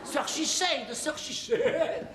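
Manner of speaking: slow, drawn-out fake English; hammed-up English name, laughing; a playful English accent, slowly; mock English accent. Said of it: "Je progresse, mon accent".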